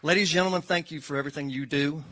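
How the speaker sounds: ringing announcement over the applause; loud call to room. Real, not acted.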